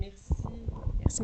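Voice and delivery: hoarse, allergy-roughened voice; scratchy, raspy speaking voice; grating voice. Real, not acted. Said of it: "le grincement de voix".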